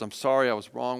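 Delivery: gentle, humble apology; a low, soft confession; softly sincere. Shown as a demonstration. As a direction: say sorry gently to your child. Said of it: "I say those words".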